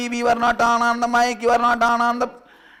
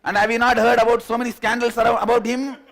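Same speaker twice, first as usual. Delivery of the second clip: loud, high, with laughter; mock scold, half laughing; scolding girlfriend; 8 semitones higher, 11 dB louder than usual. Girlfriend accuses him about the Bangalore fellow, loud, laughing.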